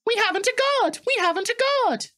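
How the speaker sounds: anxious coach. Acted. Annie warns Thomas they lost the guard, high urgent cry. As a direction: call out in alarm to Thomas. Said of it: "Annie tried to tell Thomas".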